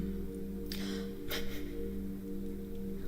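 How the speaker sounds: quiet, voiceless puff of laughter; soft breathy laugh. Real, not acted. Tarot reader reacting to the cards, soft breathy laugh.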